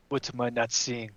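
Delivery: ordinary talk, nothing marked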